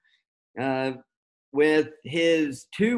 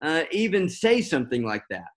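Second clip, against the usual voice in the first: incredulous how; 4 semitones higher than usual. Retold or imitated. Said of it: "is how it comes across".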